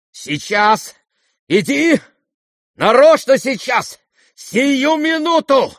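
very high, loud, slow frantic order; wild impatience. Acted. Lizaveta dragging the prince along, frantic. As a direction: drag him off this instant. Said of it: "в припадке необычайного волнения и нетерпения".

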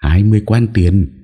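lightly voiced arrogant young woman; haughty. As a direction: toss off the price with contempt. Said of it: "Cô gái kia hất hàm".

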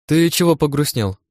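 high-pitched curious query; lifted, inquiring voice; concerned question. A narrator's reading. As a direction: ask what brought the gloom. Companion notices his gloom.

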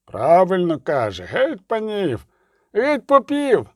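rough crowd voice, slow then rising; lightly voiced rabble heckler. A narrator's reading. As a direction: jeer at the lords.

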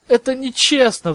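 high, indignant outcry; sudden yell. A narrator's reading. Harry to his professor over punishment, sudden high yell. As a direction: yell it out like a wronged boy. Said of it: "вдруг завопил Гарри".

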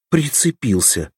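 irritated retort, voice jumping up; cross. A narrator's reading. Nastya snaps at Kranev for teasing, annoyed. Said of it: "рассердилась Настя".

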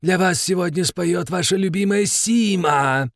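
slow, husky showgirl voice; smoker's rasp. Acted. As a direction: croak it like a chain-smoking diva. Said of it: "хриплым прокуренным голосом".

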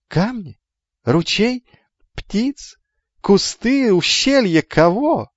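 high, climbing questions; insistent questioning. Acted. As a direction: fire off each option high, with gaps between. Rhetorical questions piling up.

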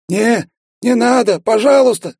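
high, loud, slow begging; pleading. A narrator's reading. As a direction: beg for mercy, squeaking high. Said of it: "взмолился Кичендаш". (высокая громкая мольба)

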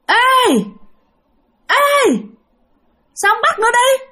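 high, loud ghostly call from nowhere; eerie high-pitched ghost taunting the farmer. Acted. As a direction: call out like an unseen spirit.

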